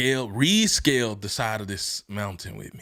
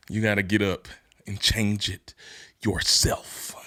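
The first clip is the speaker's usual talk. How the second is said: hushed emphasis; 4 semitones lower than usual. Acted. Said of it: "repeated softly".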